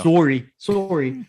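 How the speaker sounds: slow, drawn-out Canadian sorry; Canadian accent. Pretend. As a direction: apologize like a Canadian. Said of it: "start saying sorry every second word".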